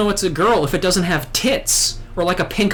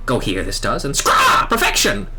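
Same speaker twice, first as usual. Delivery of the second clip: lightly voiced squawking bird-man; a hint of a proud little bird creature; Ixal bird voice. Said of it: "do all the Ixal voices like this".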